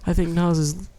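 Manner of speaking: slow, measured mock-intellectual radio voice; unhurried, formal pundit impression; NPR host. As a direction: parody a learned public-radio commentator. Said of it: "talk like that".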